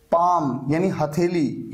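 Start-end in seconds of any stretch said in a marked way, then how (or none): 0.1-0.6 पाम with no l before the m; silent L. Shown as a demonstration. Teacher showing silent letters, पाम with the L dropped. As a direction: go straight from long "aa" to m in पाम. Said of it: "यहां पर एल silent है".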